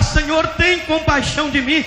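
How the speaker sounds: high-pitched preacher's imitation of begging; retold tearful plea. Weeping pastor begging God's compassion, high imitated plea. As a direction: plead upward as if crying. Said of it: "Ele começou a chorar".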